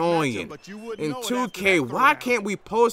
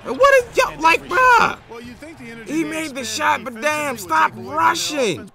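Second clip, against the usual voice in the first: exasperated yelling; 7 semitones higher than usual. Real, not acted. Gamer scolding Curry for rushing, high and exasperated. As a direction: scold the player through the screen.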